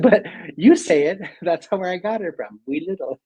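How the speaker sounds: high, loud playful protest; indignant retort. Retold or imitated. Arguing with Fergal about saying wee little, high playful protest. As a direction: push back, half laughing. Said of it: "but I said".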